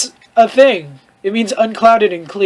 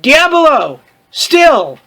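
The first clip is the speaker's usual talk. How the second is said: higher, louder hammed-up exclamation; mock dramatic cry; 7 semitones higher, 5 dB louder, much slower than usual. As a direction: ham it up like a melodrama.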